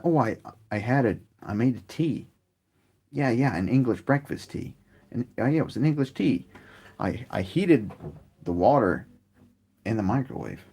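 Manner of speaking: a light send-up of an American describing microwaved tea; mock American friend. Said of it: "from my American friends".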